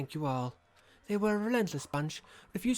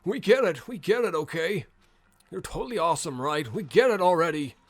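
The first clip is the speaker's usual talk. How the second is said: exasperated; 4 dB louder than usual. Real, not acted. Player annoyed at the villain.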